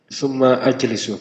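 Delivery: "Summa ajlisu" with the a of ajlisu pronounced; "Summa ajlisu" as two words, second a sounded; hamzah qata' sounded. Shown as a demonstration. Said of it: "hamzah qata'".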